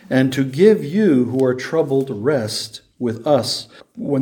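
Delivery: measured, deliberate Bible reading; Scripture reading. Acted. Preacher reading of righteous judgment to the congregation, measured Scripture reading. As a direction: read the verse out solemnly, weighting key words.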